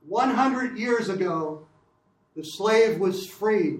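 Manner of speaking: slow, lightly voiced Philadelphia accent, imitating Johnson. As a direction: read the line like a Philadelphian orator, unhurried. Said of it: "I'm doing Johnson in a Philadelphia accent".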